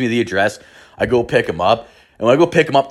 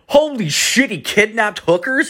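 high, stunned squeak of disbelief; mock horrified whisper-laugh into a high squeal; shocked disbelief; 9 semitones higher than usual. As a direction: gasp it out like you can't believe it. Reacting to kidnapping news.

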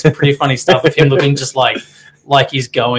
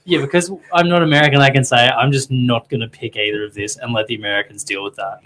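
put-on English accent. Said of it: "Can you say that in your English accent".

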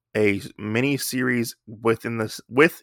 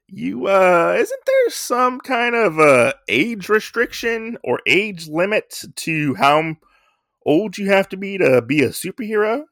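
higher, incredulous scoff; 8 semitones higher than usual. Retold or imitated. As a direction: scoff at the idea, pitched up. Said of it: "he's like".

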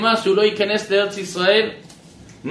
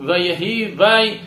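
slow, pulling the וי out of ויהי; drawn-out vai; slower than usual. Shown as a demonstration. Teacher to his class, showing the וי hidden in ויהי. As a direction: split ויהי so that וי rings out. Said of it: "לכן אמר ויהי".

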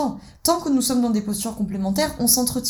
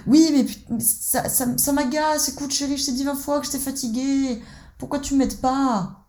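higher, drawn-out complaint; whiny victim; 5 semitones higher than usual. Acted. Wife complains she is tired and unhelped, higher whine. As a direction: complain like a hurt child. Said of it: "tu te mets dans la posture de l'enfant".

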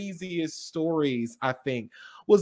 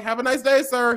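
high, bright, friendly farewell; chirpy service voice; 5 semitones higher than usual. Retold or imitated. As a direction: sing it out like a cheerful cashier. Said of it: "every time I'd be like".

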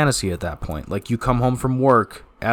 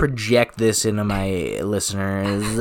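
put-on Valley Girl voice; 3 semitones lower than usual. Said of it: "In her Valley Girl voice".

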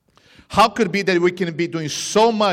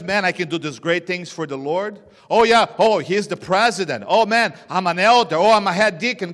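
louder, higher mock bragging about titles; boastful church member; 3 semitones higher, 5 dB louder than usual. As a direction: brag like a proud deacon. Preacher voices boastful members.

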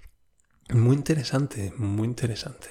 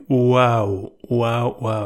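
mock scream; 4 dB louder, much slower than usual. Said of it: "grité como una niña".

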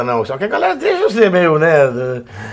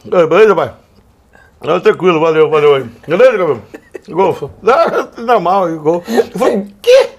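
imitating Gabiru; 3 dB louder than usual. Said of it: "Tá imitando o Gabiru".

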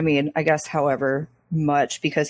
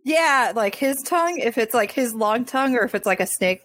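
snake tongue impression; 5 semitones higher than usual. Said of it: "your impression of a snake's tongue".

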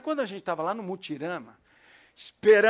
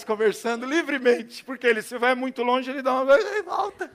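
ordinary delivery

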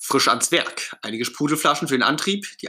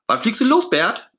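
put-on high, louder childlike call; 10 semitones higher, 6 dB louder than usual. Ernie calling up to Bert about the launch, loud. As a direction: shout eagerly up to Bert. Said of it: "ruft Ernie".

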